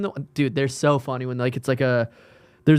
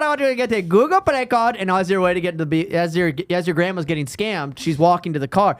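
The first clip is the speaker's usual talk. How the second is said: put-on Indian accent; 4 semitones higher than usual. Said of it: "do the accent".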